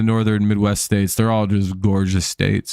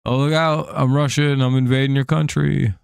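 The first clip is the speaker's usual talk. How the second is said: higher-pitched, badly faked Russian accent; mock Russian accent, pitched up; Russian guy accent; 4 semitones higher than usual. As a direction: do a lightly voiced Russian guy. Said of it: "here's my Russian guy".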